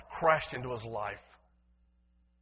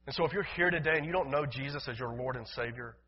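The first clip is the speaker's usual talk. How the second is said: ordinary talk, nothing marked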